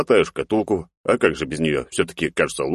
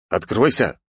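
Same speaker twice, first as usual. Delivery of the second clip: stern command; 3 semitones higher, slower than usual. Acted. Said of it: "произнёс я строго".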